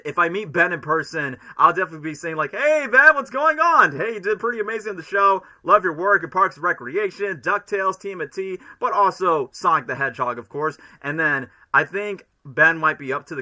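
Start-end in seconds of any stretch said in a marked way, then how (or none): 2.5-10.8 much higher and louder, an excited fan gushing; eager fan greeting. Pretend. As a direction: gush at your idol like a starstruck fan. Imagined greeting to Ben Schwartz.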